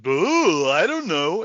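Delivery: clueless mock-dopey voice; goofy stupidity. Actors knowing their level of stupidity, goofy voice. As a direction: play it dumb and silly. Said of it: "if they'd been goofy".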